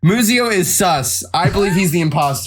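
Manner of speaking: mock accusation. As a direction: call him out like an Among Us player. Joking Among Us accusation.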